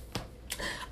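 coughing mid-sentence; choking cough, words pushed through; swallowed wrong way. Real, not acted. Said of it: "That went in the wrong way".

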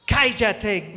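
brief, loud hush; crowd shouting. Acted. People ahead telling the beggar off, shouting. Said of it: "le gritaba la gente".

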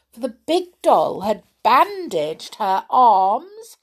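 usual speaking voice

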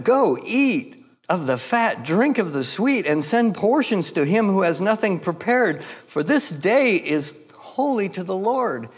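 proclaiming scripture. Retold or imitated. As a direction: announce the feast like a prophet. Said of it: "He said to them".

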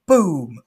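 shouted boom; loud boom sound effect. Retold or imitated. Narrator voicing boats flipped over. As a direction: slam the word like a crash.

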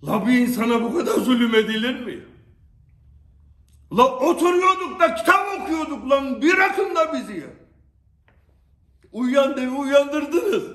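loud furious outburst; angry shouting. Real, not acted. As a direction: shout it at them, fed up. Angry rant at persecutors.

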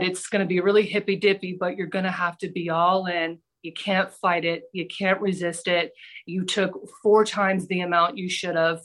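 low, matter-of-fact calm of a guru; super calm. Retold or imitated. Imitating drug guru warning what's coming, calm. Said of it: "He was just super calm".

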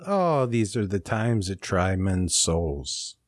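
slow, solemn recitation of a famous line; dramatic Paine quote. Retold or imitated. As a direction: declaim it slowly like a founding father, half in jest. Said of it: "in Thomas Paine's words".

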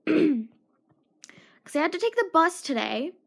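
slow unvoiced whisper. Real, not acted. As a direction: drop to a slow secretive whisper. Whispered aside, slowed.

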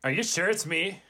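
a hint of Valley Girl, like-filled; casual, breezy Valley Girl chatter. The speaker doubts being chosen, in a mild Valley Girl accent. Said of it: "What about Valley Girl?".

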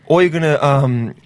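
mock Australian. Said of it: "such a hard accent to do".

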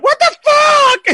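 high, slow, drawn-out mock disbelief; imitating Pete's outburst. Wife imitates Pete fuming at Under the Skin, drawn out and high. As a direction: stretch it out like a baffled friend. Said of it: "Peter's going".

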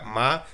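"ma" said on a set Chinese tone; Mandarin tone demo. Shown as a demonstration. Showing how tone changes a word, tone demo on "ma". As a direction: give "ma" its own lexical tone, held clearly. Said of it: "dependiendo del tono que se le dé a una palabra".

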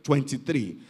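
low, slow, measured reply; old man's answer. Retold or imitated. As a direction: deliver it slowly, pausing before the point. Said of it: "The man said".

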